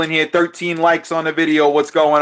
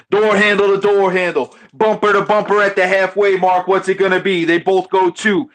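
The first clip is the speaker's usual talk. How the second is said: live race commentary; play-by-play; 2 semitones higher than usual. Acted. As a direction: call the race like an announcer. Calls the dice race live.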